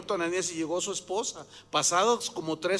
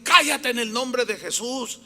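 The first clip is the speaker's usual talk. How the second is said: louder, raised-pitch rebuke, acted out; retold stern command; 4 semitones higher, 5 dB louder than usual. Pastor silencing the false prophetess, commanding. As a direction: cut the interrupter off with authority.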